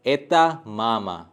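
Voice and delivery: एता मामा slow and falling; slow falling statement. Shown as a demonstration. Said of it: "दूसरे sentences पे".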